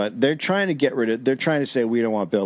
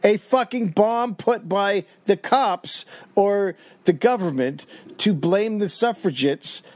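mock conspiracy rant; 9 semitones higher, slower than usual. Real, not acted. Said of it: "conspiracy rant after reading".

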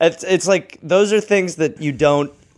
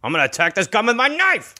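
mock battle cry; 9 semitones higher than usual. Mock heroic quote of stabbing gun.

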